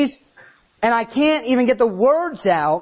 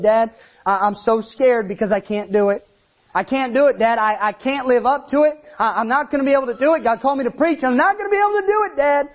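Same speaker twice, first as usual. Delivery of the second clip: rising, faster, panicky pleading; scared and crying; 3 semitones higher than usual. Retold or imitated. Young preacher crying to his dad on the phone, panicky. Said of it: "I was crying".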